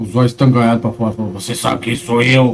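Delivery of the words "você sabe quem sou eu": unnatural, ugly ghostly voice. Retelling what a possessed man said face to face: imitating the man's ugly spirit voice. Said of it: "com essa voz".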